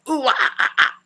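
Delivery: breathier rock wail sounds; metal wail second try. Shown as a demonstration. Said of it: "That's my best version".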